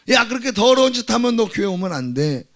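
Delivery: imitating a disapproving church member; acted scolding. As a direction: tell them off as if barring the door.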